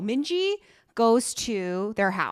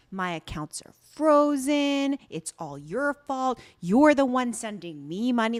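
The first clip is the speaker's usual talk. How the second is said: retold accusation; 3 semitones higher than usual. Angry woman blaming her on the farm, mock accusing.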